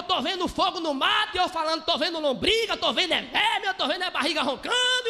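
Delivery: loud and laughing through the prayer scene; laughing loud retelling. Retold or imitated. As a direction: shout it out over the crowd while laughing.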